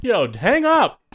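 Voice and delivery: mild mock call; half-joking yell at the phone; imitated yo. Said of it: "I'm like".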